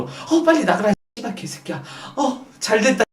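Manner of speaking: muttered secret cursing aside; inner thoughts. Acted. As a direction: think it aloud behind a polite front. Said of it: "그 속마음으로".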